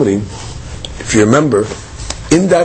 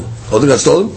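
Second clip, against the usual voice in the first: questioning repeat; 2 semitones lower, faster than usual. Shown as a demonstration. Teacher repeats the guard's claim back as a question, rising on stolen. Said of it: "No Shivua".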